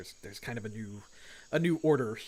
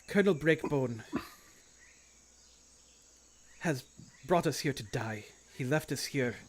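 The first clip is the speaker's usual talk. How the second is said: understated yelled announcement. Acted. Sister tells the survivors they are leaving, understated proclamation. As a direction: address the crowd as the sister, barely raising the voice. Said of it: "yell out".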